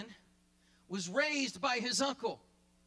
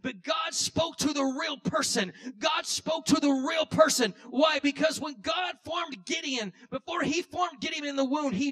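fiery preacher's emphasis; preaching shout; 2 semitones higher, 4 dB louder than usual. Real, not acted. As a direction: preach it with full force. Preacher building to a climax.

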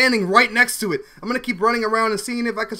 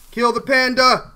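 slower, louder order; insistent command; 3 semitones higher, 4 dB louder, slower than usual. Real, not acted. Gamer urging himself to kill the panda player, slow and loud. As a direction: drag it out and mean it. Repeated command, second stronger.

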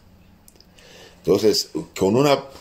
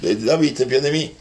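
higher pitched pleading cry; mock shout; 6 semitones higher than usual. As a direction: retell the blind man crying out, a touch raised. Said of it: "y empieza a gritar". (grito suplicante imitado, algo elevado)

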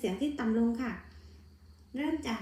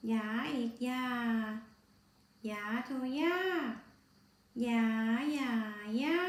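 tone spelling recitation. Shown as a demonstration. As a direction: lay out each tone step so pupils can copy.

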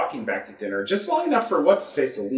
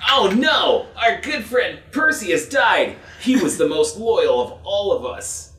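mock grief; 5 semitones higher than usual. Mock grief over Percy.

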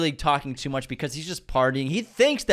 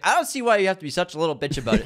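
fast, raised-pitch complaint; mock upset whine; 4 semitones higher, much faster than usual. Drunk girl upset at being turned down, mock indignant. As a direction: imitate someone drunk and put out. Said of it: "And then she's upset".

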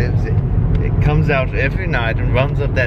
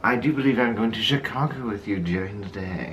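posh butler voice; 3 semitones lower, 7 dB quieter than usual. Pretend. Brother answers in posh manner.

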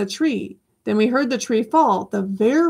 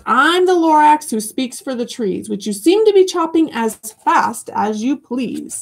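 a hint of a sharp little Lorax, raised; snapping Lorax; 4 semitones higher than usual. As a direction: snap it at the door, lightly voiced. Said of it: "He snapped".

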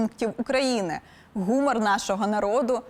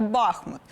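Бахмут stressed on the first syllable, БАх-. Shown as a demonstration. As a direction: lean on the opening syllable of Бахмут. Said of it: "стала звучати як". (наголос на першому складі: Бахмут)

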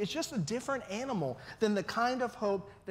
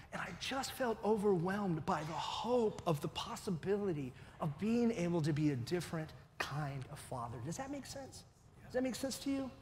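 tearful; 5 dB quieter than usual. Real, not acted. Tearful pastor sharing his past.

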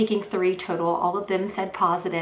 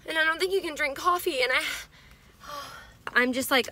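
higher, excited rush; freaking out; 8 semitones higher than usual. Real, not acted. Telling viewers about the morning coffee, excited and higher. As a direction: let the excitement spill over. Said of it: "But I'm freaking out".

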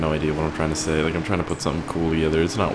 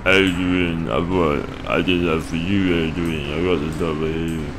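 half-remembered movie line; slower than usual. Acted. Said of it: "Adrian's from something. It's from a movie".

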